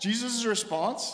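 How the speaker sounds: plain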